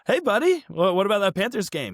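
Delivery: high, sing-song baiting voice; teasing buddy call. Retold or imitated. Teasing the hungover Panthers fan friend, high and sly. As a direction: lure him in with a sly, high greeting. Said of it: "I was just like".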